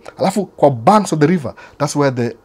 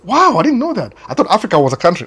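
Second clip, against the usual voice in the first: mock amazement; 7 semitones higher than usual. Sister-in-law amazed.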